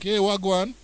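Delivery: mock Jamaican accent. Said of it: "they have Jamaican accent".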